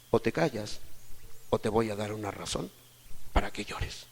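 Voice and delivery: low, soft, measured warning; father's quiet threat. Retold or imitated. Father's threat to the crying child. (amenaza de padre en voz baja)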